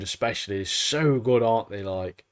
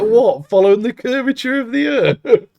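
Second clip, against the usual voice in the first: mock incredulous; 11 semitones higher, 5 dB louder than usual. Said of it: "She's like".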